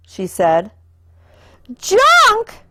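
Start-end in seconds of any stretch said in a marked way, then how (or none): 1.8-2.6 high, horrified "Junk?"; shocked cry. A narrator's reading. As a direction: gasp the word in disbelief. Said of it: "said brother and sister".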